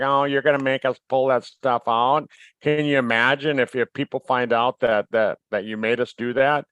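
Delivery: mildly whining complaint; whiny voice. Retold or imitated. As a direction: whine it like a spoiled company. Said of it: "sorry about my whiny voice".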